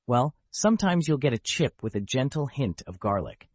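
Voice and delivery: upbeat retro commercial read; chipper 1950s ad. Acted. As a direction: sell it like an old TV ad. Podcast ad segment.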